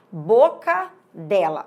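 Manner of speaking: boca dela drawn out slowly as bo... cadela; slow down boca dela so cadela stands out; split syllables in boca dela. Shown as a demonstration. Teacher demonstrating cacophony, boca dela slowly split into bo-cadela. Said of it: "olha só, cadela".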